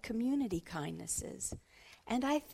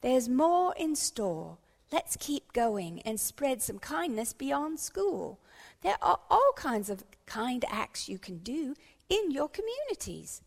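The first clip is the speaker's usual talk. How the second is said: encouraging schoolteacher; 5 semitones higher, 4 dB louder than usual. Acted. Teacher urges pupils to spread kindness further, encouraging schoolteacher. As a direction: urge the class onward, drawing the words out. Teacher character addresses class.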